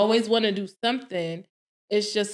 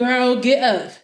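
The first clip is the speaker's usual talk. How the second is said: retold pep command; 3 semitones higher, 4 dB louder than usual. Dad's message to crying daughter, retold as emphatic urging. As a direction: repeat the order, coaxing her along.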